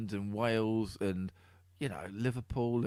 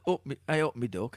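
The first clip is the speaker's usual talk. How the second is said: mock Nottingham accent; 3 semitones higher, 4 dB louder than usual. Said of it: "That's what they say in Nottingham".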